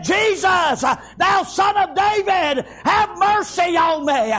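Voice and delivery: high, drawn-out cry for mercy; hollered plea. Acted. Blind beggar crying out to Jesus, hollered plea. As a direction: holler out the plea, stretching the words. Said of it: "he hollered the more".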